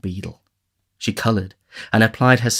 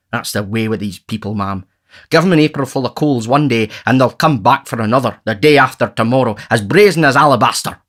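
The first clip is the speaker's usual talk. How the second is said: pompous scorn growing louder; Bumble scornful; 3 semitones higher, 4 dB louder than usual. Acted. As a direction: sneer at the brazen poor.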